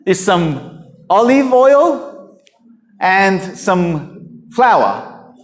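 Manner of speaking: slow, drawn-out hopeless plea; the starving widow telling the prophet she has only oil and flour, despairing. Retold or imitated. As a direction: drag it out like she has given up. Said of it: "she said".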